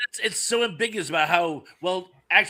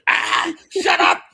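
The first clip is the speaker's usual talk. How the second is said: loud, hammed-up "shut up!" outburst; mock shout; 7 semitones higher, 5 dB louder, slower than usual. Quoting a movie scene to friends, mock yelling. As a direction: yell it like a furious contestant.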